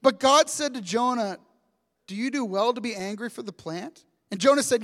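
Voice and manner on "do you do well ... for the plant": quiet, softer formal reading of God's question; hushed, solemn scripture voice. Shown as a demonstration. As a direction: read it gently from the text. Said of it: "This is the best. Like".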